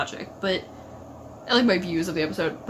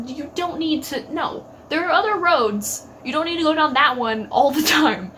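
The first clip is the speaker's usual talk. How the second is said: chiding scold; 6 semitones higher than usual. Real, not acted. Fan scolding Dean directly, calling him baby. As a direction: tell him off like a fond parent.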